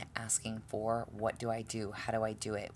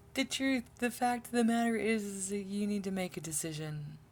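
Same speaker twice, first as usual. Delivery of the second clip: much higher, louder exasperated shout; frustrated yell; 10 semitones higher, 4 dB louder than usual. Real, not acted. Tarot reader yelling at the viewers to decide, exasperated. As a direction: shout the truth at them, fed up.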